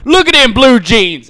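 loud, high, drawn-out jeer; mock heckle at a slow shout; heckling announcer. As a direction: imitate an announcer heckling over the crowd. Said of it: "getting heckled on the side".

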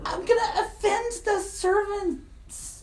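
put-on hammy high Irish accent, slow; stumbling through a put-on Irish brogue; bad Irish accent. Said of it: "you've got to work on your Irish accent. It's terrible".

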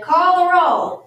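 high, loud, drawn-out reading; reading aloud from a list. A narrator's reading. New teacher reading the day's list aloud, loud and slow. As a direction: read out the instruction slowly. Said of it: "Amelia Bedelia read".

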